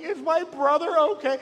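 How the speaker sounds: a hint of a worried ten-year-old; worried big sister. Big sister worried about brother.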